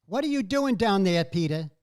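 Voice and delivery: a Brooklyn mom scolding her son; nagging mom. Retold or imitated. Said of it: "my mother would say to me".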